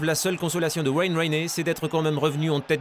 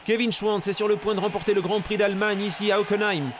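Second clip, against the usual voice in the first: shouting commentator; 4 semitones higher than usual. Acted. Race leader nearing finish.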